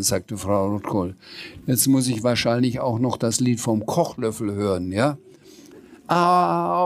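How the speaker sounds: animated read-aloud dialogue; story narration. A narrator's reading. Sams and Frau Rotkohl discussing the spoon, lively storytelling. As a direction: read both characters' parts with lively lilt. Reads a children's book aloud.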